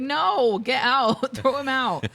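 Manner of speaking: hammed-up shouted dismissal; mock angry order. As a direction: imitate a boss ordering someone thrown out. Acting out boss's angry order.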